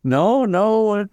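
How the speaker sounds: lightly voiced relatives, pitched high; humouring family. Family answering grandfather who sees angels, lightly acted humouring. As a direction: imitate a family indulging an old man.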